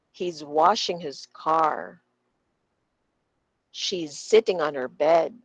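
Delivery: content words like "sleeping", "sofa", "baking", "cake" stressed, small words light; drilled sentence stress. Shown as a demonstration. Teacher drilling repeat-after-me sentences, stress on verbs and nouns. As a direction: lean on each verb and noun, such as "washing" and "car". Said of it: "So repeat after me".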